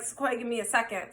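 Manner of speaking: soft, quick, composed request; calm, controlled. Retold or imitated. Man excusing himself to deal with his ex, calm. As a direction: keep it quietly under control. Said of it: "he was very calm".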